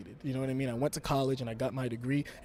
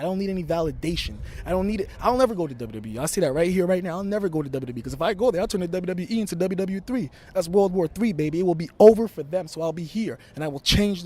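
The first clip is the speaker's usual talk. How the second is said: promo threat; 4 semitones higher, 4 dB louder than usual. Acted. Heated wrestling promo threat.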